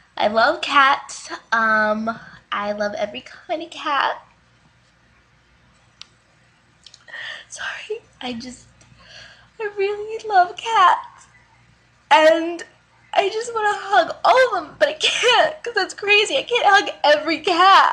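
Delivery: emotional, gushing speech on the verge of crying. Introducing herself and hoping for replies, getting emotional. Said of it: "I'm getting emotional".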